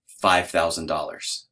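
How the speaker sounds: low, slow, drawn-out confession; measured, low-voiced sheepish answer; reluctant admission. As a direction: own up to the price slowly and sheepishly. Husband reluctantly admits the price to wife.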